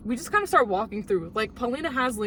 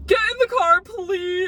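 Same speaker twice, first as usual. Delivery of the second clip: high, louder frantic call; mock urgent shout; 9 semitones higher, 7 dB louder, slower than usual. Friends urging her to get in, frantic shout. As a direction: yell it like you need them to hurry. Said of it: "her friends were like".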